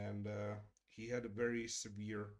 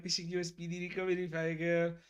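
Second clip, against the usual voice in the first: high, loud, quick imitation of a well-wisher; imitated cheery well-wishing, pitched up; sweet well-wisher; 7 semitones higher, 8 dB louder than usual. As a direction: gush a get-well wish in a raised voice. Quotes a well-wisher in chat.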